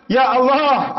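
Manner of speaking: retold anguished prayer; anguished cry to God. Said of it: "Apa kata dia?".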